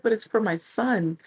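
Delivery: fan pleading. Retold or imitated.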